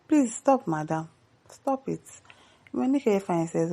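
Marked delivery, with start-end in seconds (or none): 0.1-2.0 exasperated plea. Real, not acted. Begging the widow to stop.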